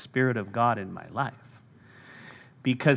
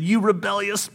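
angry Moses; 6 semitones higher than usual. Acted. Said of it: "he said".

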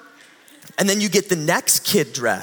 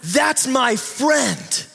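put-on slow child's voice; 6 semitones higher, much slower than usual. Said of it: "She said".

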